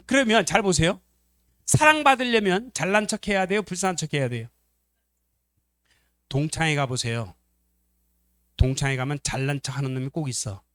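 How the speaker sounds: usual speaking voice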